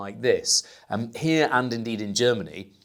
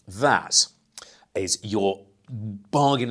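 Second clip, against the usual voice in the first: whisper; slower than usual. Acted. Reveals the bargain of the week.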